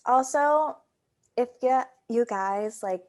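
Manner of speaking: talking while eating popcorn; mouth full. Real, not acted. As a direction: speak around a mouthful. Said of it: "I'm eating popcorn right now".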